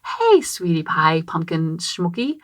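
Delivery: sweeten every word for your daughter; much nicer. Retold or imitated. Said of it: "I said it much nicer".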